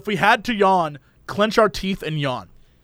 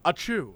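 read-out sneeze; 3 semitones lower, 8 dB quieter than usual. Shown as a demonstration. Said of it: "someone reading the word achoo off a piece of paper".

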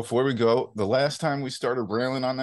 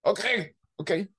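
higher, placating give-in; mock-meek okay; mock compliance; 7 semitones higher than usual. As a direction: give in meekly, lightly acted. Acts meek reply to scolding.

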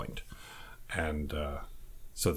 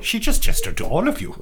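high, loud, laughing as she speaks; 10 dB louder than usual. Real, not acted. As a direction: burst out laughing mid-sentence. Table laughing at gesture.

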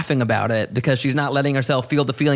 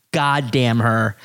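mock mad; 4 semitones lower, slower than usual. Real, not acted. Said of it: "I'm so mad at how beautiful".

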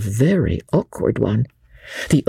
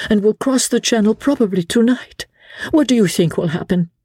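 a higher, earnest lady's voice; a wife pressing for help; Lady Blakeney's voice; 10 semitones higher than usual. A narrator's reading. Lady Blakeney asking Sir Andrew for help, higher and earnest.

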